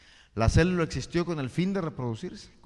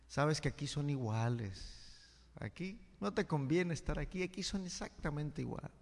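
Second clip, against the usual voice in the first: discouraged; 7 dB quieter than usual. Retold or imitated. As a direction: let the answer sink with discouragement. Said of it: "con un tono de desánimo". (el anciano sabio le responde al forastero, con desánimo)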